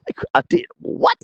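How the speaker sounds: very high, retold astonishment; stunned disbelief. Driver told that he won the event, stunned disbelief. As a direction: squeak it in mock shock.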